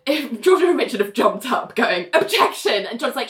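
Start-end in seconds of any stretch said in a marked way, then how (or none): 2.1-2.9 mock courtroom protest, slightly raised pitch; lightly acted lawyer's interruption; acted objection. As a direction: call out a quick, higher objection.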